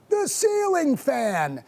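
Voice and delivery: dramatic reveal. Real, not acted. Dramatic reveal of his blunder.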